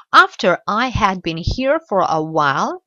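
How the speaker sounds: "After I had been here for a while" then a clear pause; pause after the phrase. Shown as a demonstration. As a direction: stop after "while" before going on. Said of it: "et je fais une pause ici".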